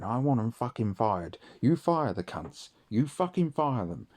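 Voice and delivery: imitating an angry dad's demand; retold rage. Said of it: "and he fucking raged".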